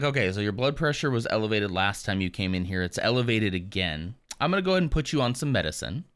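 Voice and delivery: rattled off quickly, doctor hurrying through; imitating a fast-talking doctor. Doctor rushing the patient through the visit, talking fast. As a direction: rush the doctor's lines to show he is in a hurry. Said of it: "he was talking, like, so fast".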